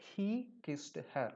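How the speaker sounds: very slow, word by word; slow example reading. Shown as a demonstration. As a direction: read the corrected sentence slowly. Teacher reads the corrected sentence. (പതുക്കെ വ്യക്തമായി വായിക്കുന്നു)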